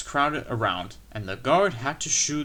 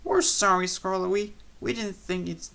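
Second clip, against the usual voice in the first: sheepish coaches; 7 semitones higher than usual. A narrator's reading. Coaches make excuses.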